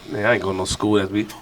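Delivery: inner defiance. Retold or imitated. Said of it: "in my mind, I'm like".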